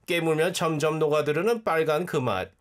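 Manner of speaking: put-on sung fast in a North Korean accent. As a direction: croon the pop tune with a Pyongyang accent. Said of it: "How does 빨간 맛 sound in North Korean accent?".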